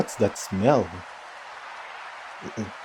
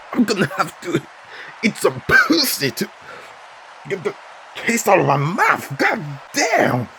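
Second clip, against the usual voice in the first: after bitter medicine; 9 semitones higher than usual. Acted. Still reeling from the taste.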